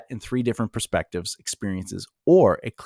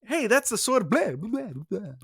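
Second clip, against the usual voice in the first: high excited character voice; someone recognizing sword; 10 semitones higher than usual. Retold or imitated. Someone spots the sword, high excited voice. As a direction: squeal it out in a higher voice. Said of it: "And someone goes".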